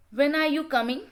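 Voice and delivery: "When are you coming?" with the voice lifting at the end; rising tone. Shown as a demonstration. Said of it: "questions can also be asked in a rising tone".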